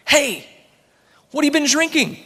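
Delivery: put-on high, loud storybook old man calling out; shrill old man. A narrator's reading. Eighty-year-old man accosting a drunk, shrill and loud. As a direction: pipe up shrilly, far above your own pitch. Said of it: "he hears this shrill voice".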